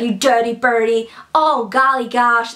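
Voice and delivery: slow scolding tone with each word drawn out. Retelling what a book character says when someone does wrong: imitating Annie. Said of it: "she's like".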